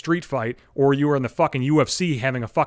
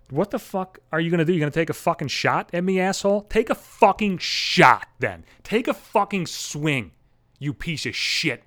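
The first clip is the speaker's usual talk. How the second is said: retold confrontation, taunting; defiant challenge; 2 semitones higher than usual. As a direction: dare him to swing, word by word. Standing up to dad, nose to nose.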